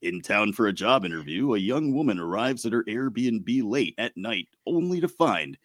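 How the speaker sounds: lightly put-on radio announcer read; measured, dramatic movie-synopsis read in radio voice. Reading the Barbarian synopsis to co-hosts, radio voice. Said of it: "radio voice ready here".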